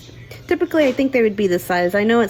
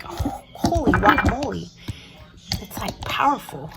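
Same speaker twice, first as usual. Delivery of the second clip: whispered. Real, not acted. Onion fumes, whispered.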